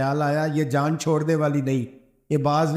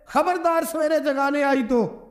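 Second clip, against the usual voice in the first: much higher, teasing stern warning; mock stern warning; 11 semitones higher than usual. Husband teasing wife that she must never wake him, mock stern. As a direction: pretend to forbid her, pitched up high.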